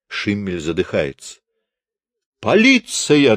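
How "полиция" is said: choked cry for the police, higher and louder; a strangled, higher shout for help; strangled yell. A narrator's reading. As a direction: shriek it through a tight throat. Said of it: "вопит он сдавленным голосом".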